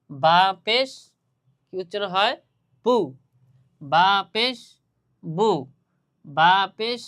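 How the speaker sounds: loud, measured recitation of বা পেশ বু for pupils to copy; drilling ba pesh bu. Shown as a demonstration. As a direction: call out বা পেশ then a short rounded বু. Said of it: "এভাবে বারবার বারবার আপনারা পড়তে থাকবেন".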